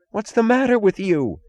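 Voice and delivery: high, startled gasping question; gasped. A narrator's reading. Mooch gasps at Taggart's face, high and alarmed. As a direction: gasp it out, alarmed. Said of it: "gasped Mooch".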